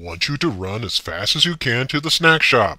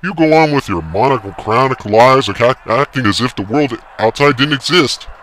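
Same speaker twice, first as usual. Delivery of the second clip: ranting yell; 10 dB louder than usual. A narrator's reading. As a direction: lecture him with scorn. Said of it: "yelled the umpire".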